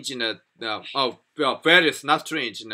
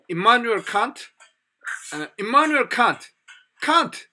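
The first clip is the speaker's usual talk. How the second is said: higher-pitched, proud name-drop; showing off knowledge; 7 semitones higher than usual. Retold or imitated. Student showing off his knowledge to friends, proudly showing off. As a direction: drop the name to impress, repeating it. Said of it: "I wanted to show my".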